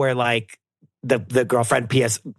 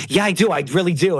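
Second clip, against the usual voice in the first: mock insistence; 5 semitones higher than usual. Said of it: "And he's like".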